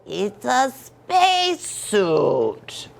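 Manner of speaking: slow, firm declaration; declaring. Acted. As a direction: lay it out slowly and firmly. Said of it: "declared Scapito".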